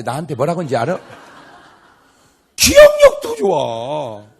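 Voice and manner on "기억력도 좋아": high, slow, laughing mock wonder; drawn out, teasing and amazed; mock amazement. Preacher teasing wives about their memory, slow high mock wonder. Mocking wife's long memory.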